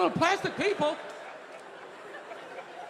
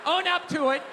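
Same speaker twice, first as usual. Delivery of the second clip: mock angry tirade. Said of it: "I can't be like".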